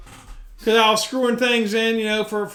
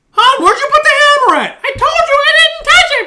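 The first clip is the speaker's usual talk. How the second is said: loud, much higher retold yell to his wife; calling out; 9 dB louder than usual. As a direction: holler for her, exasperated. Yelling for wife about hammer.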